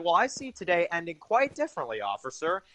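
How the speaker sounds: lightly voiced calm menace, barely changed from his own voice; a hint of Teddy's relaxed cool, easy and unhurried; chill, unbothered. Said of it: "he's so just chill about it".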